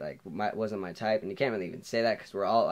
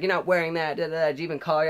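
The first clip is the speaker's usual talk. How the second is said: imitating mom, higher and louder; nagging mom; 8 semitones higher, 7 dB louder, faster than usual. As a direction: nag in a raised mom voice.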